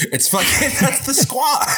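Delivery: high, sung-out hype about the squad; hyped shout. Real, not acted. Friends hyping the Avengers squad, sung-out shout. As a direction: belt it like a fan chant.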